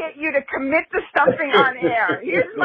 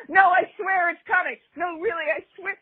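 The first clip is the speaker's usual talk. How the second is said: mock pleading excuse; 6 semitones higher than usual. Host mocking their stalling on the show, high pleading voice. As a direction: beg like you're stalling the audience, half laughing. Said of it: "It's just gonna be like".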